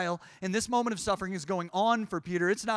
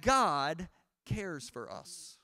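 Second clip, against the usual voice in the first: tender resolve; 3 semitones lower, much slower than usual. Acted. Soft slow resolve after climax.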